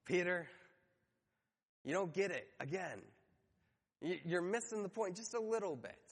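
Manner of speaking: imitated weary patience after a sigh; Jesus. Jesus to Peter who missed the point, mock exasperation. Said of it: "I can almost hear Jesus go".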